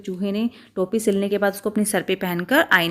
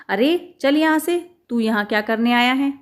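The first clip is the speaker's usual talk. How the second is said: angry shooing; 3 semitones higher than usual. Acted. Shopkeeper chases mouse off.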